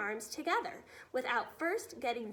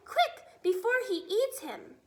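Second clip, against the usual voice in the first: much higher, louder urgent cry; panicked plea; 7 semitones higher, 6 dB louder than usual. Acted. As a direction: plead in terror. Sophie panicking.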